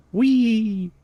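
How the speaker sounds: loud gleeful whee. Pretend. Streamer showing viewer the helicopter dance, loud squeal. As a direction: shriek it like a spinning helicopter.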